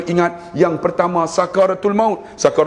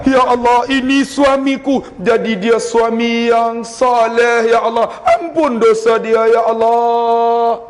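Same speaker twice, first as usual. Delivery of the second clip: higher, slow, pleading wife's prayer; wife praying aloud; 7 semitones higher, slower than usual. Acted. A wife prays aloud for her husband, higher and slow. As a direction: lift the voice and plead slowly as the wife. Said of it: "Isteri pula".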